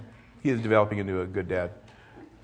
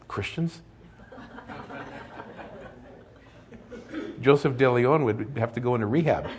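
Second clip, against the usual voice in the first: laughing; 3 semitones higher than usual. Real, not acted. Joking about coffee and rehab.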